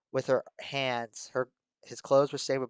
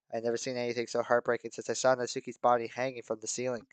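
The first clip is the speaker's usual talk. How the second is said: ordinary talk, nothing marked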